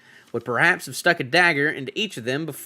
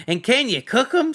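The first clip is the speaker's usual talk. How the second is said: hungry troll Tom; 11 semitones higher than usual. Acted. Troll Tom wonders about cooking the hobbit, eager.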